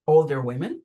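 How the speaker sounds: ordinary delivery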